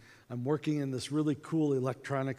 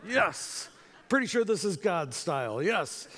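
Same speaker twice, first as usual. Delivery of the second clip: bold self-assurance; 3 semitones higher than usual. Retold or imitated. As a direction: playfully imitate a boldly certain volunteer. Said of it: "see how boldly they raise their hand".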